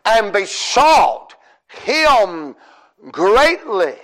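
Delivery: "besought him greatly" drawn out slowly with falling emphasis; emphasised phrase. Shown as a demonstration. Preacher telling the church to listen to the phrase, slow emphatic delivery. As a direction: lean on "besought", pause, then land "greatly". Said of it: "Listen to that phrase".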